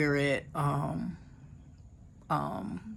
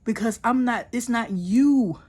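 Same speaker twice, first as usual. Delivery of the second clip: higher, louder and firm, God's reassurance; God's reassuring voice; 4 semitones higher, 4 dB louder than usual. Retold or imitated. She voices God telling her it's not her, higher and firm. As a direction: speak as God, lifting her up and insisting. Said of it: "God was saying".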